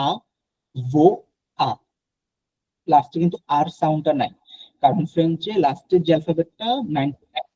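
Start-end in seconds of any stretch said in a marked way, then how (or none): 0.1-1.7 "আ, ভো, আ" said as three separate syllables, a-vo-a, no final r; avoir split into syllables. Shown as a demonstration. Teacher to students, sounding out avoir syllable by syllable. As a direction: break "আ, ভো, আ" into slow separate syllables, final r silent. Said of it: "সাউন্ডটা শুনতে হবে".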